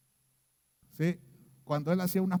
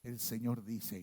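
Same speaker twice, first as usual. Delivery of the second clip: low, slow, hoarse prophet voice, much lower and softer; voz muy ronca; 9 semitones lower, 11 dB quieter than usual. Retold or imitated. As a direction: intone it like a solemn prophet, rasping. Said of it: "con una voz así muy ronca". (voz de profeta grave y ronca, lenta)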